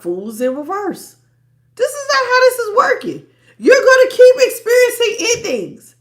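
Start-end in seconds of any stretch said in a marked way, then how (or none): 1.7-5.9 high, loud, laughing through it; half-laughing as she drives the point home; laughing warning. Real, not acted. Warning the client about endings, laughing.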